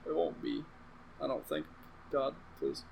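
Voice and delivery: breathy whispered prayer under the breath; whispered plea. Real, not acted. Whispering a prayer to God before explaining Star Wars. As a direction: beg the sky in a hushed whisper. Praying it won't be hard.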